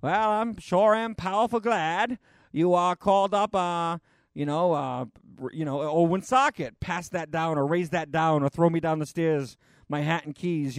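put-on a light Down East Maine accent. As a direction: mimic an old Maine Yankee, mildly. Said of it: "They have their own way of saying things".

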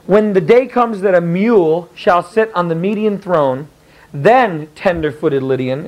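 slow, solemn oracle reading. Shown as a demonstration. The teacher reads the oracle to the class, slow and solemn. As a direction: intone it like a prophecy. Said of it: "See where the italics is".

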